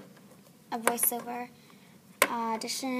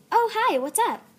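high, loud, friendly greeting; super-friendly, sing-out hello; Lila being nice; 10 semitones higher, 9 dB louder than usual. Acted. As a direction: greet someone sweetly in a much higher pitch. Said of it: "her nice".

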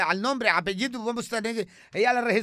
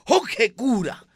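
lightly voiced grumpy old caller; a hint of a cranky coastal old man; Eugenio Baena impression. Don Eugenio Baena greets Jorge Cura on air, grumbling. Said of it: "de Cartagena llega don Eugenio Baena".

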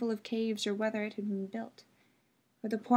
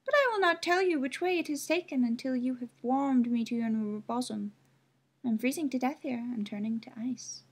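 bramble; 3 semitones higher than usual. Acted. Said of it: "replied the thorn bush".

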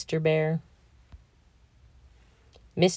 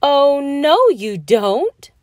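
high, loud oh no you don't; wife stopping husband going back to sleep; playful scolding shout; 8 semitones higher, 8 dB louder, slower than usual. A narrator's reading. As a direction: firmly refuse to let him sleep. He curls into a ball.

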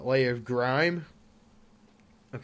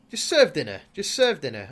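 louder, insistent repeat; exasperated command; 2 semitones higher, 7 dB louder than usual. Real, not acted. Ordering his stubborn sim to serve dinner, exasperated. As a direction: stress "serve" in frustration.

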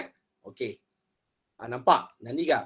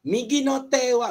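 slow model question; slow doctor question; 6 semitones higher than usual. Shown as a demonstration. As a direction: ask it slowly for the class. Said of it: "Doktor akan tanya".

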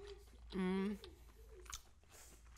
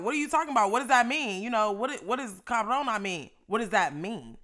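went off on her; 7 dB louder than usual. Retold or imitated. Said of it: "I kinda went off on her ass".

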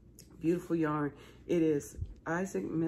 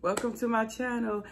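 booming sing song welcome; 7 semitones higher than usual. Real, not acted. Vlogger greets viewers.

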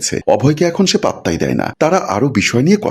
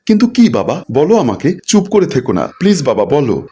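high, urgent pleading with father; anxious pleading; 5 semitones higher than usual. Acted. Daughter begging father for news of her husband, anxious pleading. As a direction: press him anxiously for the answer.

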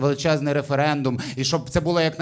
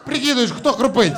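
retold shout; 6 semitones higher, 3 dB louder than usual. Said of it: "кричить вона мені".

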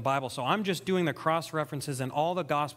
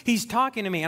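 higher, excited outburst of wonder; joyful amazement; 6 semitones higher than usual. Retold or imitated. New believer overjoyed that God is speaking to him, amazed. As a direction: exclaim it as if God just walked in. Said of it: "I just feel so joyful".

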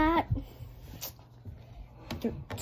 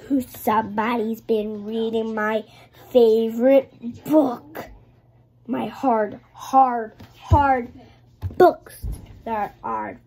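big papa bear; 5 dB louder than usual. Acted. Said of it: "So he went".

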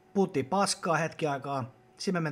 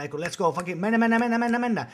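hyping shout; 5 semitones higher than usual. Retold or imitated. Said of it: "koko ajan huudan".

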